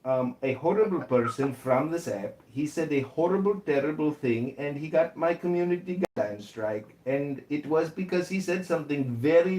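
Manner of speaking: put-on Indian accent. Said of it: "that's a little too anglicized".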